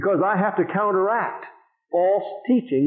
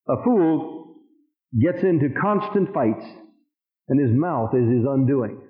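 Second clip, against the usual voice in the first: slow reading with long pauses between phrases; deliberate scripture reading; 4 semitones lower, slower than usual. Real, not acted. Preacher reading the Living Bible verse aloud, slow and deliberate. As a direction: read it out slowly, pausing after FOOL and after FIGHTS.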